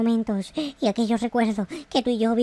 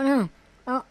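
usual speaking voice

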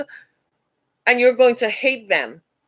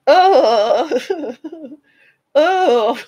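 real laughter; 5 semitones higher than usual. Real, not acted. Speaker laughs at her point.

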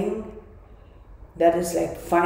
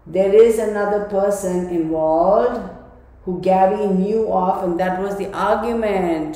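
louder, emphatic voicing of Gabby's message; slower, pressing spirit-message delivery; channelling Gabby; 6 dB louder, slower than usual. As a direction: relay her insistent yes with force. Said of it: "She's saying".

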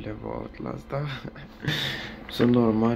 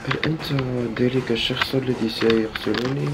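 dramatic movie voice; 3 semitones higher than usual. Pretend. Formal Arabic movie-style line.

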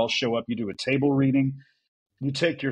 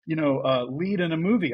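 higher, eager insistent gush; insistent fangirling; 4 semitones higher than usual. Retold or imitated. Friend insisting John remember his award nomination, eager. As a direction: press him, thrilled he doesn't get it. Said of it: "she goes".

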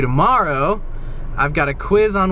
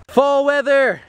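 excited; 9 semitones higher, 3 dB louder, slower than usual. Real, not acted. Excited about fall.

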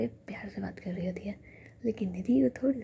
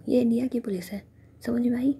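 louder, scolding whisper with a rising end; sharp rebuke; 3 semitones higher, 6 dB louder than usual. Acted. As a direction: tell him off, voice pushed up. Nidhi snaps at Sanju.

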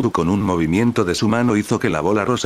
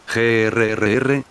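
slow, drawn-out mock growl; annoyed growl; 2 semitones higher, slower than usual. Majin Buu can't catch the chocolate, slow annoyed growl. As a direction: growl out the frustration. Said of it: "gruñó molesto".

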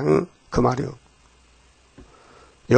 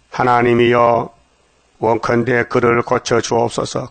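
slow solemn prayer; 3 semitones lower, slower than usual. Acted. Moses' prayer quoted from scripture.

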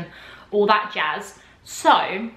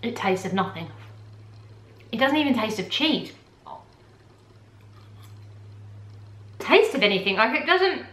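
chewing while talking; eating between words; mouth full of pasta; 3 dB quieter than usual. Real, not acted. Seen 0: She eats pasta from a cup; food visible in mouth mid-speech.

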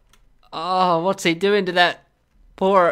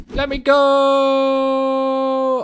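pleading character voice; 3 semitones higher, much slower than usual. Pretend.

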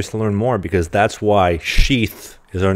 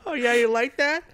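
high, slow put-on sexy voice; mock bedroom talk. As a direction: tease it out slowly in a high fake voice. Acting out overheard bedroom talk.

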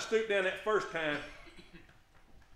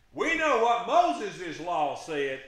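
slow, deliberate, louder; lightly voiced smug accusers; 7 dB louder, much slower than usual. Preacher voicing the Pharisees slow and emphatic. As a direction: lean on each word like a smug accuser.

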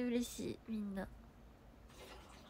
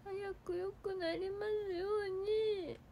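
tender wish; 8 semitones higher, 6 dB quieter than usual. Real, not acted. To a sick viewer, a soft tender get-well wish. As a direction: wish it gently like a prayer. Repeats wish, softer and higher.

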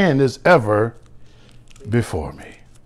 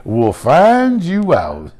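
put-on old pastor preaching; much slower than usual. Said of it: "like my old pastor used to say".

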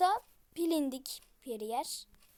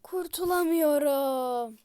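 whisper; 3 semitones lower, 3 dB louder than usual. Real, not acted. Trapped in game.

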